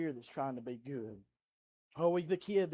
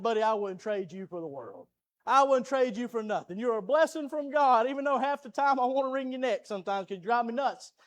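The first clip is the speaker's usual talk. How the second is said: fond talk to son; 5 semitones higher, 7 dB louder than usual. Retold or imitated. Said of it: "I said".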